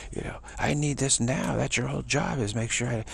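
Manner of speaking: imperious diva coming a bit unglued; panicking witchy diva. Retold or imitated. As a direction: berate the help in a mock panic. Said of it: "she's panicking".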